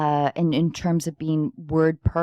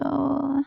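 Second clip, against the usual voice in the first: flirty sigh; 9 semitones higher than usual. Shown as a demonstration. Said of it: "sexy voice".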